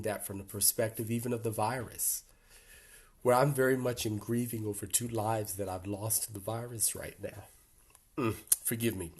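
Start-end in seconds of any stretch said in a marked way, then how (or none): 3.2-9.1 getting emotional. Real, not acted. Speaker grieving two lives lost to the virus, tearful. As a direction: fight back tears as you say it. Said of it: "I am gonna get emotional".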